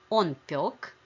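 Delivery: ПЁК stressed on its one syllable; stress on stem. Shown as a demonstration. Teacher models the masculine past of печь, stress on stem. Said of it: "stress on the stem in masculine forms".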